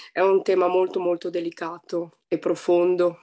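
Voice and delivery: husky voice from a cold; hoarse voice. Real, not acted. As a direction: speak with a flu-roughened throat. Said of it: "scusate la voce, sono un po' influenzata". (voce rauca da influenza)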